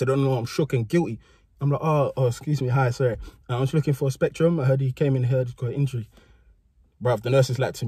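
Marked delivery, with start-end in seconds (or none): 1.8-6.1 lightly put-on polite pupil; good boy voice. Guilty pupil asking the nurse after his friend, good boy voice. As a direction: politely feign innocence, hesitating a little. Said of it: "trying to do my good boy voice".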